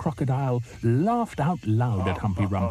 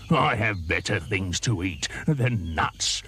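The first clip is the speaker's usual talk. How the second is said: sniffy croc; 2 semitones lower, slower than usual. Acted. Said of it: "sniffed the crocodile".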